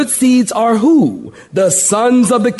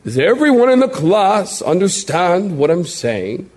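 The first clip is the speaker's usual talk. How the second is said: stern classroom teacher asking the class. Shown as a demonstration. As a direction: sound like a teacher checking the class. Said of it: "That's my teacher voice".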